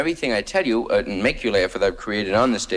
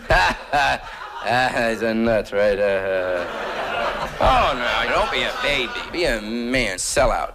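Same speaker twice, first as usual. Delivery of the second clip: producer's brush-off. Retold or imitated. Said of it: "That's the first defense with me".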